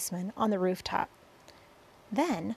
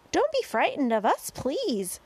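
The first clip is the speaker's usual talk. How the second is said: high, raised pleading call; 8 semitones higher, 4 dB louder than usual. A narrator's reading. Boy to frightened policemen below, calling out. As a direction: call down to reassure a crowd. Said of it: "James called out".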